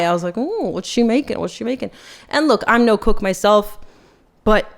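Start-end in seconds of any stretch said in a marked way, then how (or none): 0.4-1.9 softly intrigued ooh, then hushed; nosy, quiet wondering aloud; acted-out eager interest; keen curiosity. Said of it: "I had a keen eye".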